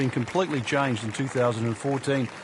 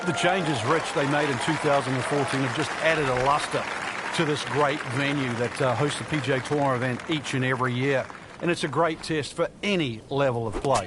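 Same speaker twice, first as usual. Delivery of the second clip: steady broadcast analysis voice; golf commentator. Acted.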